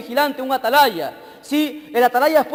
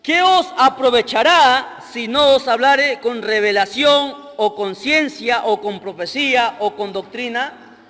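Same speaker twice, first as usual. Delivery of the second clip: measured, emphatic Bible reading; scripture reading; 4 dB louder than usual. Real, not acted. Preacher reading verse six to the church, scripture reading. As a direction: read the verse out firmly to the congregation. Reads scripture aloud to congregation.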